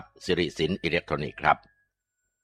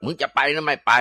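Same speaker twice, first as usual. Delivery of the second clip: furious yell; 9 semitones higher, 4 dB louder than usual. Acted. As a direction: bellow at the ghost to get out. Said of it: "หมอเตี้ยแกก็โวยวายลั่นเลย". (หมอผีตะโกนด่าผีอย่างโกรธจัด)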